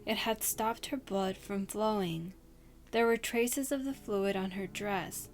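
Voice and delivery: steady storyteller voice, reading a scary tale; spooky story reading. Acted. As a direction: read it like a campfire ghost story.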